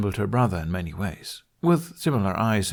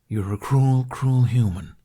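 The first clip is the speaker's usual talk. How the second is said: teasing dragon; 4 semitones higher, 5 dB louder, slower than usual. Acted. Dragon Toothless teases Hiccup.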